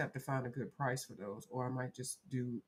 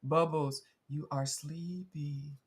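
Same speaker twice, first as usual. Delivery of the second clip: slow, drawn-out pretend hypnosis; playful fake hypnotist voice; mock hypnotist; 4 dB louder, slower than usual. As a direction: lull the cat to sleep, hamming it up. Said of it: "that little A S M R voice".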